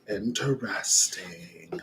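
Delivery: whisper. Real, not acted. Whispered reaction.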